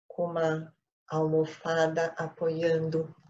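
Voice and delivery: measured instructions with long pauses; unhurried meditation-teacher delivery; guided meditation. Real, not acted. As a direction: guide the group calmly into meditation, phrase by phrase.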